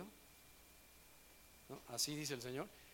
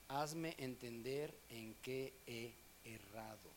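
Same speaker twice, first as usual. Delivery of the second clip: pleading prayer; 4 semitones lower, 4 dB quieter, much slower than usual. Acted. Reads Job's prayer aloud.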